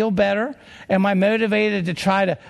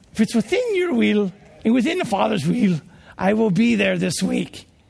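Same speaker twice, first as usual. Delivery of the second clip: put-on English accent. Retelling a phone call from Arthur Burt, giving his words in an English accent. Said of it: "I'll try an English accent here".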